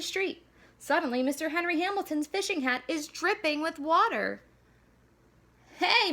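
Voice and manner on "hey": sharp high loud yell; startled angry shout at a soaked hat. A narrator's reading. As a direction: neighbor shouting when splashed. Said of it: "Mister Henry shouts".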